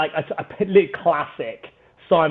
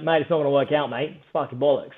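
dismissive Australian impression; Australian accent. Startup guy telling a founder to give up, imitated Australian accent. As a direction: pour cold water on it in a put-on Australian accent. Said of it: "and an Australian guy".

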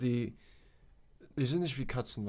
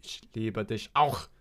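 a hint of a gruff reply, slower; lightly voiced Hitler; 4 semitones lower than usual. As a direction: Hitler answering the dog. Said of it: "Hitler war". (angedeuteter Hitler, langsamer)

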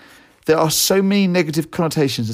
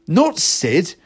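bewildered; 5 semitones higher than usual. Retold or imitated. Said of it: "completely bewildered".

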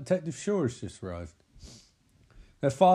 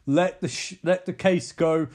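mock angry boss; 3 semitones higher, 4 dB louder than usual. Boss yelling at detective to drop case.

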